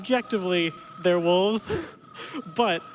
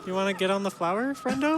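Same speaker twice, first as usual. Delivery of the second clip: put-on coaxing baby talk; 4 semitones higher, 3 dB louder than usual. Coaxing the game creature.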